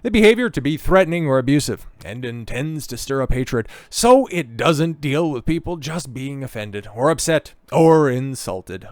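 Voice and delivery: hammed-up Scottish accent, high and loud; loud, lilting Scottish impression; Humza Yousaf. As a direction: put on a big mock Scottish politician accent. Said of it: "Let me get into his, uh, Scottish accent".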